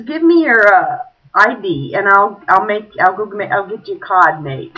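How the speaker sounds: lightly imitated dropped-R accent; little guy's accent. Casino man asks player for ID, regional accent. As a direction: offer help in the little man's accent. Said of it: "tell by your accent".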